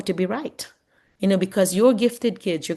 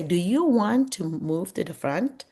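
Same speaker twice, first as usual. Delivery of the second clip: gentle question; slower than usual. Shown as a demonstration. Teacher gently asks a student to move forward, kind question. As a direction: invite the student kindly. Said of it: "a question is always kinder than a statement".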